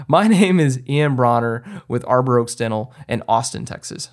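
corrected take with a laugh breaking in; laughing through the fix. Shown as a demonstration. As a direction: laugh at the slip, then finish it. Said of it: "Actually, I just got those mixed up".

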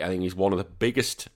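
talking through a burp; burping the words. Real, not acted. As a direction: let a burp slip out mid-sentence. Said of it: "a bit of a burp there".

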